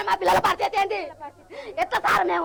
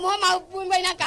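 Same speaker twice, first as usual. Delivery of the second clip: crying. Real, not acted. Farmer weeps over losing land.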